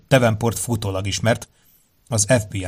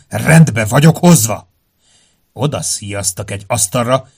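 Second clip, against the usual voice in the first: growling; 5 dB louder than usual. Acted. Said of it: "hangja morgásszerűvé mélyült".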